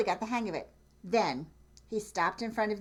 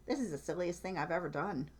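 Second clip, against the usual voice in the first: Cow's thought; 5 dB quieter, faster than usual. Acted. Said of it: "what she thought".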